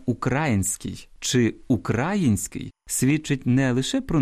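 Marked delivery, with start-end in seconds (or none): 0.1-1.1 "український" said slowly with the stress on the wrong syllable; drawn-out "український", wrongly stressed; wrong stress demo. Shown as a demonstration. Radio host showing listeners a wrong stress, slowly. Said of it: "Наголошування". 1.7-2.7 "український" said slowly with the stress on the wrong syllable; drawn-out "український", wrongly stressed; wrong stress demo. Shown as a demonstration. Radio host showing listeners a wrong stress, slowly. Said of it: "Наголошування".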